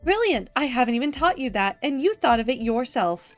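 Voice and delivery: lightly acted effusive AI mentor; gushing praise. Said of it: "Format smothered me with praise".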